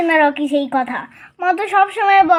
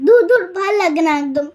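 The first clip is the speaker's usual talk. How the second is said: tearful sulk. Acted. Sulking child over denied toy.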